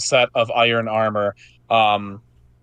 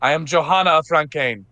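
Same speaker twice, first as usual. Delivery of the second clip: rousing knight's speech; 4 semitones higher than usual. Acted. Johanna continues her rallying speech.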